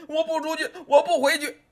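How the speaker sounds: put-on high, desperate child refusing; a boy clinging on, crying no; boy clinging to the officer, crying out refusal; child's defiant cry. A narrator's reading.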